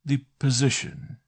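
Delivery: a pompous doctor holding forth; oracular. A narrator's reading. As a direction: pronounce it like a solemn oracle. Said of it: "in his old oracular manner".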